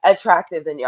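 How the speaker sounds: mock apology, dripping with irony; sarcastic. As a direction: fake sorry, really gloating. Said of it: "when I'm being sarcastic".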